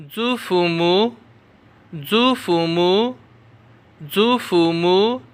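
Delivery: 祖父母 spread out syllable by syllable; 祖父母 drawn out in a teaching voice; very slow drill. Shown as a demonstration. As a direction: stretch 祖父母 very slowly for learners. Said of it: "मेरे साथ पढ़ते जाएं".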